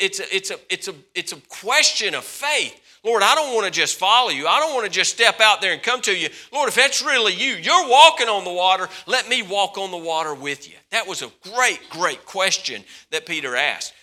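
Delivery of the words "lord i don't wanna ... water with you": raised, pressing plea; eager challenge. Acted. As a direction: push it, hungry for more faith. Peter's bold challenge voiced.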